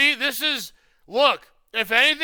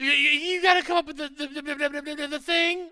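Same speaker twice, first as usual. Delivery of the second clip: mocking stammer; 4 semitones higher, 4 dB quieter than usual. Heckler mocking the streamer's stammer.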